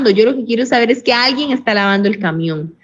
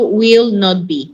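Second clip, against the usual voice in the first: very slow, drawn out will not be; teacher spelling out the form; slow emphatic answer; much slower than usual. Shown as a demonstration. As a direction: stretch each word for the class. Teacher gives negative form.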